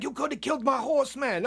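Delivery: put-on high-pitched Jamaican-accented scolding; mock Jamaican indignation. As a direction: imitate an upset Jamaican trail guide. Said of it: "in his Jamaican accent".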